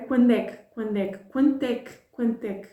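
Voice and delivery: fast, clipped é que joined to each word; quick native run-together. Shown as a demonstration. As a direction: rattle them off like a native. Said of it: "native speakers over and over again saying".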